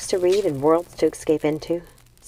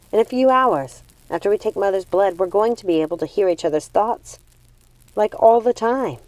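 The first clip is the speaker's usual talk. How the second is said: excited; 3 semitones higher than usual. Acted. Gothel excited about sharing thoughts.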